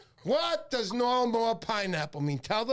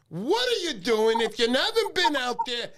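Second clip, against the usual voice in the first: playful shout; 4 semitones higher, 6 dB louder than usual. Real, not acted.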